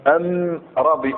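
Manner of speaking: slow أم with an m replacing the l of ال; Himyar article. Shown as a demonstration. Teacher demonstrating Himyar speech, am- for al-. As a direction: draw out أم before ربي in the Himyar way. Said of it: "جماعة يتكلمون بهذه الطريقة".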